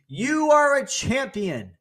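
very high, slow holler; acted scream. Man screaming to the mountain, long high call. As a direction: stretch it out, calling over the mountains. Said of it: "the man screams".

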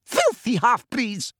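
high, drawn-out shriek, moderate volume; screamed insult. A narrator's reading. Umbridge cowering before centaurs, screaming. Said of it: "she screamed".

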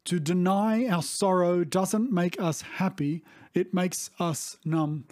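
To deny our sorrow, said slowly with weight on deny; slow, weighty repeat. Shown as a demonstration. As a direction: let it sink in, slow and grave. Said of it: "said again, slower".

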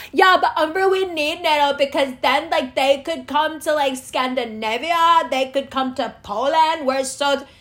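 lightly voiced naive objector; mock objector. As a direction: parody the know-it-all critic.

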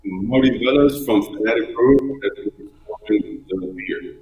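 choppy broken-up call audio; breaking up space radio. Real, not acted. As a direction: voice cutting in and out over a bad line. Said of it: "you're breaking up really bad".

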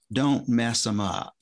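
put-on Southern accent. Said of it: "in this real thick Southern accent".

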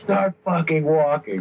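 lightly played devil command, drawn out; big devil voice. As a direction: imitate an impatient devil, word by word. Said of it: "hearing this big devil voice".

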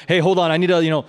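intense prophetic word. Pretend. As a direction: ham up a dramatic word from the Lord. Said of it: "you don't have to make it so intense like that".

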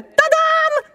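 high flourish then laughter; triumphant tadam. Acted. Agata shows off her pearls with a laughing flourish. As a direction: present it like a trick.

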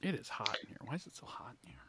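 tipsy, muttered complaint; slurring a little from drink. Real, not acted. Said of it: "'Cause you're drunk".

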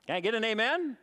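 loud call for response. Real, not acted. Preacher calls to congregation.

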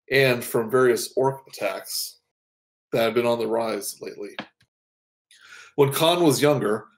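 even, measured storyteller read; narrating a hero's backstory; story narration. Acted. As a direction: set the scene like a book's opening.

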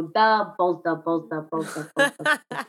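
hammed-up Chicago sports-fan accent. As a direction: ham up a Chicago bar regular cheering. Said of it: "That's my Chicago accent".

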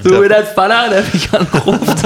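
high shrieking laugh through words; shrieking jackpot winner. Real, not acted. Laughing at a friend's joke.

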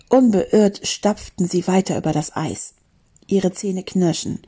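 animated storybook reading; story narration. A narrator's reading. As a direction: read an adventure to a class, clearly articulated. Reads a story aloud.

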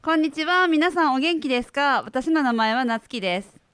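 the same lines with Kagoshima dialect intonation. Shown as a demonstration. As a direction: give it the Kagoshima lilt. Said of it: "if you did that in Kagoshima dialect".

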